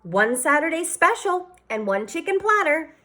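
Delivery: high call toward the kitchen; a waitress calling the order to her husband. A narrator's reading. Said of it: "she called to her husband".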